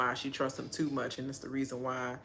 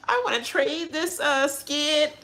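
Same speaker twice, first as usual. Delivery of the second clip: higher and louder flustered babble; mock flustered Taylor; 11 semitones higher, 6 dB louder than usual. Vlogger imitates Taylor fumbling her choice, high flustered babble. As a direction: stumble over the words, pitched up. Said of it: "It's like".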